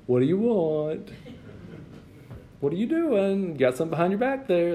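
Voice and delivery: lightly voiced indulgent parent; parent questioning child.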